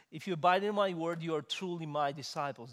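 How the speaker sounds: high, loud ringing quote, stress on my; loud proclaimed verse. Shown as a demonstration. Preacher booms the verse at congregation, high and loud. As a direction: proclaim it to the back row. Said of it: "repeating the verse as a test".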